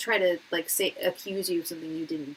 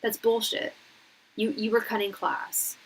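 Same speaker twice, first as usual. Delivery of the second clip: mock angry instructor; 3 semitones higher, 3 dB louder than usual. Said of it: "he was like".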